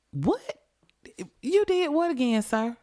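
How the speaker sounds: a dispatcher who can't believe it; shocked operator. Retold or imitated. Mock operator stunned by the caller's confession, shrieking high.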